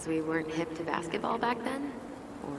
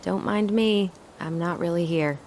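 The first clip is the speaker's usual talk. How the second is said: loud; 8 dB louder than usual. Acted.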